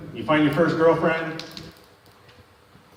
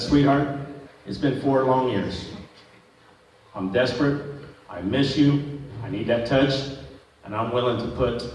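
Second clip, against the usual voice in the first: woo her gently, half mocking; tender plea; 4 semitones lower, 4 dB quieter than usual. Pleading to wife in story.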